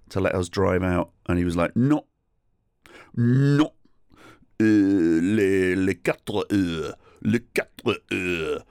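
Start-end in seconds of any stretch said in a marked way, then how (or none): 1.8-8.6 mock French refusal, punched no then drawn-out words; exaggerated French accent, slow and final; stubborn French stallholder. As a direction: refuse like an immovable French trader.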